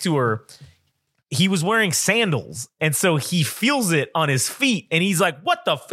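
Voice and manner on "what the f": high-pitched mock startle, cut off; retold yelp of disbelief, breaking off; startled yelling man. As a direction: imitate a man caught off guard. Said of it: "What are you fucking yelling about".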